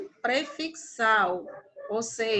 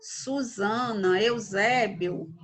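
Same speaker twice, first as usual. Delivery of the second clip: slow example names; 2 semitones lower, slower than usual. Shown as a demonstration. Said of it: "Tereza, Neuza".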